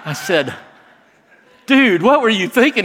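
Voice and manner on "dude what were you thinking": incredulous. Retold or imitated. Friend wore no underwear.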